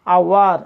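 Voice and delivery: আওয়ার loud, with a full ao-wa; aowa sound. Shown as a demonstration. Teacher giving an example of ou, emphatic ao-wa in আওয়ার. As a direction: punch out আওয়ার as ao-war, falling at the end. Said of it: "তখন উচ্চারণটা হবে আওয়া".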